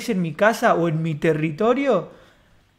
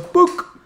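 high, loud pop of the board; skate trick pop; 10 semitones higher, 6 dB louder than usual. Retold or imitated. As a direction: snap the trick sound out.

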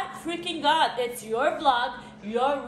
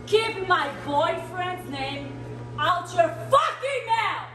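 slow, furious shout; angry yell; 2 semitones higher, slower than usual. Acted. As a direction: snap it out, slow and mad. Angry yelling at Aaron.

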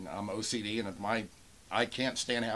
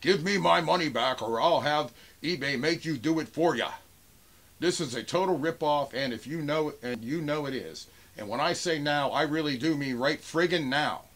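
raised, higher mock-angry reading; imitated yelling; 4 semitones higher, 4 dB louder than usual. Seller reading a buyer's all-caps demand, imitated yelling. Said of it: "I'm supposed to think he's yelling at me".

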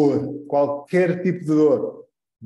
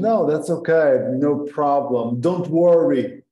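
reassuring; slower than usual. Shown as a demonstration. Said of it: "o outro diz".

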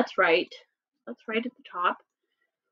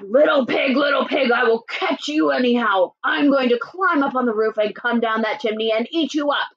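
mildly angry wolf threat; mad wolf. Acted. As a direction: threaten as an irritated wolf, starting firm. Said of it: "The wolf got mad".

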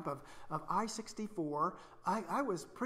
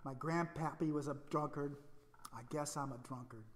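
defeated inner voice; 2 semitones lower, 6 dB quieter than usual. Retold or imitated. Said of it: "that voice that said".

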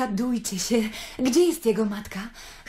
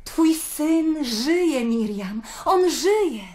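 joyful; 4 semitones higher, much slower than usual. Acted. Miriam telling the mother joyfully.

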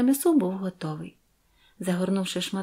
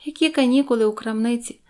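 giggling; 5 semitones higher, 6 dB louder than usual. A narrator's reading. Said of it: "захихотіла дівчина".

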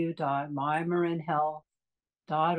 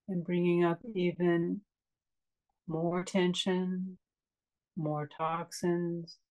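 calm meditation guide with long pauses; unhurried, spacious guiding into relaxation; guided meditation. Acted. Meditation teacher leading a class into a restful breath, calm guiding voice.

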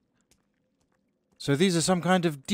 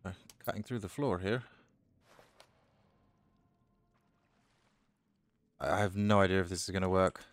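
quiet; 6 semitones lower, 8 dB quieter, faster than usual. Real, not acted. Sneaking, muttering to self.

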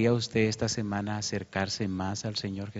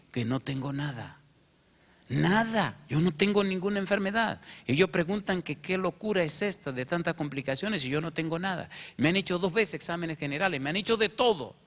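high, overjoyed mother telling the news; a mother bursting with relief, pitched high; joyful mother; 8 semitones higher than usual. Retold or imitated. (madre eufórica, voz aguda de alegría)

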